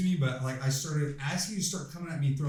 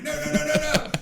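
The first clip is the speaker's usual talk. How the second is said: high, loud, rapid-fire string of noes; referee calling out; 12 semitones higher, 8 dB louder than usual. Retold or imitated. Referee stopping a fighter who rushed in, high urgent shout.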